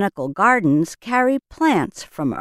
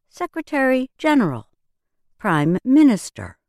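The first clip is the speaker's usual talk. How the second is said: each place name with the start of the second word hit hardest, "Orleans", "Vegas", "Rainier" leaned on; stress on second word. Shown as a demonstration. Teacher modeling proper nouns for learners, second-word stress. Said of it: "Listen for the stress in these proper nouns".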